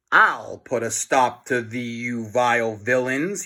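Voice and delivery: lightly heroic declaration; mock-heroic challenge; a hint of a superhero; fearless hero. A narrator's reading. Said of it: "he said fearlessly".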